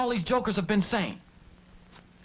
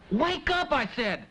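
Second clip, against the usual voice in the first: insistent; 6 semitones higher than usual. Acted. Waking sleeping friend.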